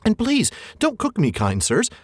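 high, frantic hobbit pleading; pleading Bilbo. Acted. Bilbo begging the trolls not to cook him, high frantic pleading. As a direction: beg for your life, tripping over words. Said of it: "Bilbo pleading with trolls".

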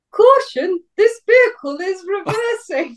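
high robotic warning announcement; reversing alarm voice. Pretend. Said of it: "I do the voice".

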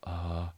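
soft mock-stunned "uh"; hushed imitation of a dramatic reaction; quiet fake-shock utterance. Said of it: "who for real goes".

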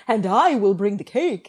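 lightly put-on proud announcement; a hint of an over-keen baker; mock earnest girl. Co-host joining in as the party baker, lightly mock-earnest.

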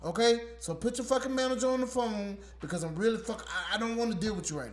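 loud, half-laughing anger; mock furious caller. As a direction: yell at the agent while cracking up. Acted quarrel with phone agent.

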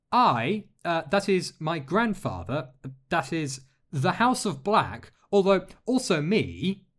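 put-on high, halting, embarrassed girl's voice; flustered young girl. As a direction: stumble over it, red-faced. Alex, flustered, voiced higher.

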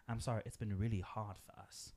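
badly faked Scottish accent; mock Scottish accent, likely the wrong one; attempted Scottish accent. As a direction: put on a doubtful Scottish accent. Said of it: "am I doing the wrong accent?".

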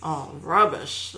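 slow, drawn-out commentator's disapproval; lightly voiced commentator lamenting a shot; golf commentator. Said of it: "Or the commentator you could hear".

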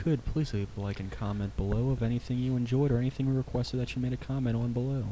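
attempted seductive DJ voice; smooth, sexy voice. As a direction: try sweet-talking the ladies, understated. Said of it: "I wanna try it".

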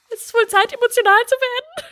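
mock-solemn high voice; mock dramatic. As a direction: ham up a tearful announcement. Mock dramatic self-quote.

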